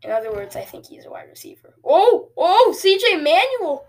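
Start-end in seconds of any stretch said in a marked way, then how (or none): 1.8-3.9 high, loud burst of excitement; excited shout. Real, not acted. Gamer calling out a big run as it breaks, excited shout.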